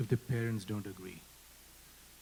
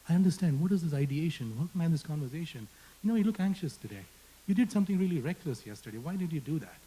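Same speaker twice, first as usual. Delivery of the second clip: higher, quicker caring check-in; concerned friend; 5 semitones higher, faster than usual. Pretend. Speaker voicing a community member asking a friend, caring. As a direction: ask a friend gently what's wrong, a bit higher.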